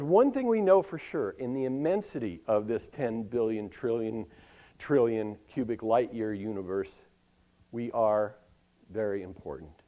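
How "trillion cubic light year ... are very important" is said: normal talking voice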